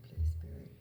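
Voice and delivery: a hushed call to Spirit; whispered plea. Real, not acted. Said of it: "I'm whispering because it's early morning".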